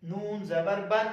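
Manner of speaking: نون زبر بن spelled slowly, بن ending in a humming nasal n; slow spelling demo. Shown as a demonstration. Teacher proving both spellings sound the same, slow. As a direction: let بن hum at the end. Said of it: "دونوں کی آواز ... وہ same ہے".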